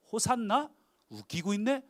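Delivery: mildly scornful questioning; understated mock rebuke; mocking reproach. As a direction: scoff lightly as a disapproving Pharisee. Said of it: "하면서 막 책망하는 거예요".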